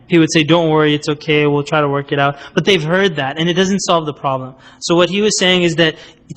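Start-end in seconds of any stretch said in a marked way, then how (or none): 0.4-2.4 reassuring. Retold or imitated. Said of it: "he would just reinforce their trend".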